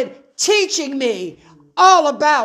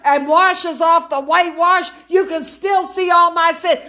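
preaching shout; 2 semitones higher than usual. Real, not acted. Preaching at full force.

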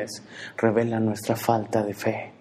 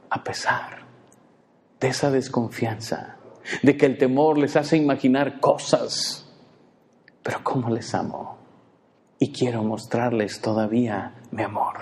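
tender God. Acted. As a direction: speak gently, almost breathed. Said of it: "me imagino que suspira y dice".

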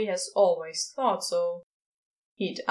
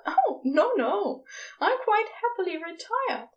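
chuckling; 10 semitones higher than usual. A narrator's reading. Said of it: "the angel chuckles".

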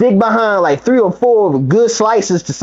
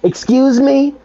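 high, drawn-out mock "excuse me"; demanding lady; 7 semitones higher, slower than usual. Guest lady calling to servers for a cup, high-pitched demanding imitation. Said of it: "that lady that kept on saying".

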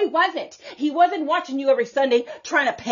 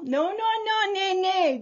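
God's voice; 8 semitones higher than usual. Retold or imitated. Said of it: "God says".

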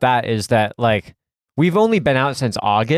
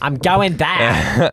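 Ray Comfort voice; 3 semitones higher, much slower than usual. Retold or imitated. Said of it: "I started talking in a Ray Comfort voice".

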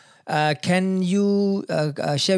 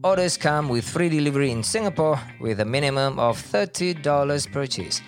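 ad read. Acted. Sponsor ad read.

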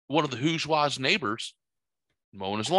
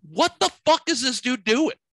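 higher, louder, slow disbelief; incredulous outburst; 10 semitones higher, 5 dB louder than usual. Retold or imitated. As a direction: drag out the shock at the dude. Neighbors gawking at man mowing.

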